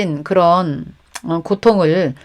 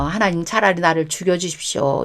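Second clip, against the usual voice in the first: quiet, worn-out plea to God, softer; weary plea; 2 semitones lower, 6 dB quieter than usual. Acted. Prophet under the broom tree begging God for death, softly exhausted. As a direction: sink into it like a prophet at the end of his strength. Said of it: "엘리야가 너무 지쳐서".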